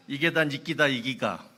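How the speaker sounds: brusque Gyeongsang dialect retort; 경상도 사투리로 퉁명스럽게; Gyeongsang accent. Retold or imitated. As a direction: snap back in thick Gyeongsang dialect. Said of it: "일본 말로 들은 거예요".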